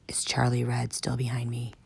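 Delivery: soft secret whisper. Acted. Tank whispering to the kids, secret whisper. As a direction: whisper so the guard can't hear. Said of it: "Tank lowered his voice to a whispered".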